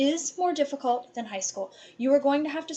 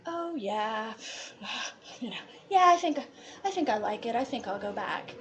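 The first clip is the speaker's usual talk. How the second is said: hesitant casual reply. Retold or imitated. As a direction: play it cool but falter a little. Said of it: "my cousin comes up to me".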